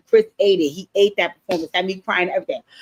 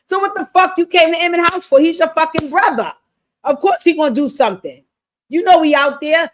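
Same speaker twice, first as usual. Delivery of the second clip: outraged rant; 6 semitones higher than usual. Real, not acted. Scolding Damien for running to his brother, high and outraged. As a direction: scold him like he's lost his mind.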